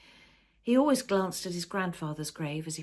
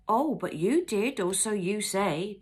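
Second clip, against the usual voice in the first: slow, louder retort; throwing it back; 4 semitones higher, 5 dB louder, slower than usual. A narrator's reading. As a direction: fling the words back at him. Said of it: "Jan threw back".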